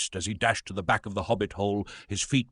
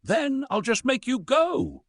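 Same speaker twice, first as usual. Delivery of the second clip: snarled. A narrator's reading. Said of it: "he snarled".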